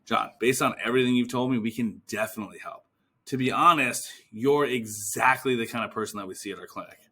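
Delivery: assured, matter-of-fact confidence; smooth, certain delivery; certain tonality. Shown as a demonstration. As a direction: state it as settled fact. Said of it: "You wanna be certain in that tonality".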